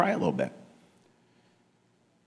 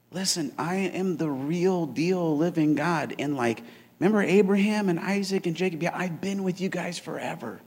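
tender reassurance; 5 dB quieter than usual. Retold or imitated. God reassuring the Israelites, soft and tender. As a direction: gently promise. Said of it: "Basically, God just said".

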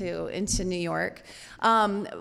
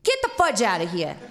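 loud mock New York dismissal; retold shout to get lost; gruff New York cop; 6 dB louder than usual. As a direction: imitate an angry New York sergeant, loud. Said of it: "a New York tater hater".

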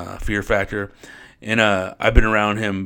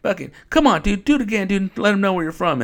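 high, loud hype-man call to the crowd; imitating hype host; 11 semitones higher, 4 dB louder than usual. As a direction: pump the crowd up like an MC grabbing the mic. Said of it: "that fool got on the mic and goes".

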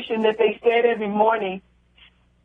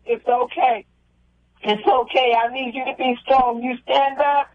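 soothing reassurance. Retold or imitated. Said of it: "he eventually calmed me down".

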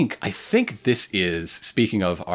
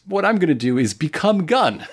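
silly stand voice; 8 semitones higher, 3 dB louder than usual. Pretend. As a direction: voice the stand as a dimwit. Voicing a stand.

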